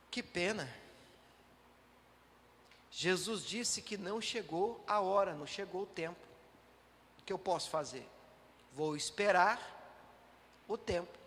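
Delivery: soft, sighing resignation; resigned passive believer. Retold or imitated. Preacher voices a believer who just sits and waits, softly resigned. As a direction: give up quietly, arms crossed. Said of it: "cruzar os braços e dizer".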